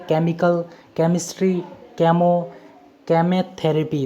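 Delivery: केमिकल, केमिस्ट्री, केमो, केमोथेरेपी each begun with a hard k. Shown as a demonstration. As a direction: read केमिकल to केमोथेरेपी as separate words starting on k. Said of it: "सीएच का उच्चारण होगा क". (केमिकल से केमोथेरेपी तक हर शब्द क से, अलग-अलग)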